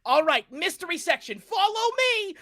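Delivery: loud, high urging; urgent call. Acted. Mireth urges the party to run, calling loud. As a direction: hurry them along. Emmeline calls to follow.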